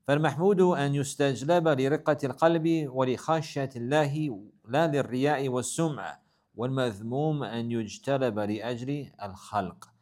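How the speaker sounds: fast, even recitation of classical Arabic; reading Arabic text. Acted. Teacher reading the Arabic passage aloud to the class, fast recitation. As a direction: rattle through the quoted text.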